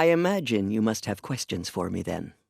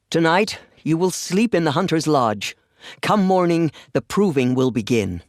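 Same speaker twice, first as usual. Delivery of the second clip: public announcement; 3 semitones higher, 5 dB louder than usual. Acted. Announcing the proving to all.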